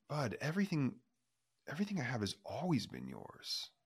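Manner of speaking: put-on father gently reassuring his older son; tender father. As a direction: soothe a hurt son, softly.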